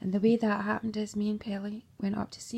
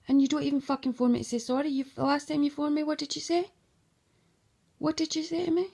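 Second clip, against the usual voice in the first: higher-pitched, insistent challenge; angry accusation; 5 semitones higher, faster than usual. Real, not acted. Confronting someone over their last phone call, accusing. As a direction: demand an answer, pitch climbing.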